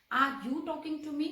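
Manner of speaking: slow, word-by-word model question; slow classroom demo of "Are you talking to me?"; slow teaching read. Shown as a demonstration. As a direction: spell the question out slowly for the class. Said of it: "interrogative".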